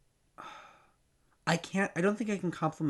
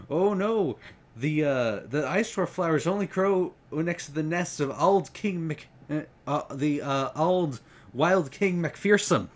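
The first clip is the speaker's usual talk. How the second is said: a light Highland brogue, voicing the falcon dad; lightly rolled Scots Highland accent, falcon dad raising the alarm; 3 semitones higher than usual. The falcon dad warns Thrug about the flowers, in a light Highland brogue. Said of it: "very strong Highland brogue".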